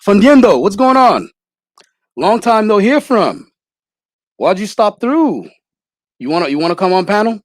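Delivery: a light imitation of a measured pundit; Anthony Brian Logan impression. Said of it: "So he's like".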